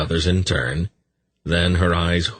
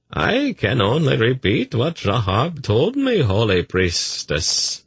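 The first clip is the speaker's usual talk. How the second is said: mollifying messenger; 7 semitones higher than usual. A narrator's reading. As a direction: placate an angry priestess. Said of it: "in a mollifying gesture".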